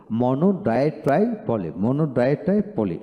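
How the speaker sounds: rhythmic run of মনো, ডাই, ট্রাই, পলি; even beats on মনো, ডাই, ট্রাই, পলি; memorising drill. Shown as a demonstration. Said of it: "এইভাবে পড়াবেন".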